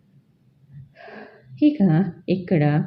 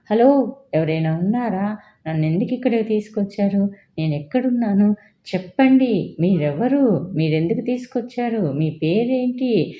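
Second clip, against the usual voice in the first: mild frantic calls, rising higher; frantic shouting; 5 semitones higher than usual. Acted. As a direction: call out into the dark, panicking. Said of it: "పిచ్చి పట్టిన దానిలాగా గట్టి గట్టిగా అరుస్తుంది".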